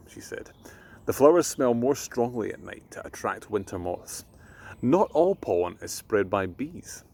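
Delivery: put-on gentle storyteller reading to children; bedtime story reading. A narrator's reading.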